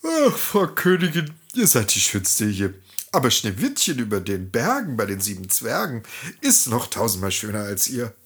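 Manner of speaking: drowsy mirror answering through a yawn; a hint of a yawn in the mirror's voice; bored yawning mirror. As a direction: sound bored of the old question. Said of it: "Der Spiegel gähnte leise".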